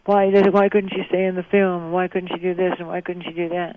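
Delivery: imitating a huffy, hurt complaint; puffed-up, teary protest. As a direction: protest in a wounded rush, mildly acted. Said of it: "all puffed up and teary".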